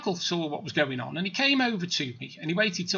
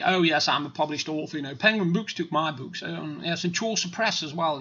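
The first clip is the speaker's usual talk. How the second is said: put-on posh accent, lower in pitch; mock posh accent; 3 semitones lower than usual. Pretending to be a published author, mock posh accent. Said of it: "I can do the old posh accent".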